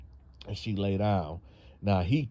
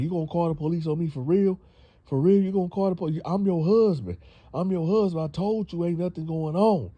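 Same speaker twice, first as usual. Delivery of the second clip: indignant disbelief; 7 semitones higher, 4 dB louder, faster than usual. Retold or imitated. Boyfriend indignant about police.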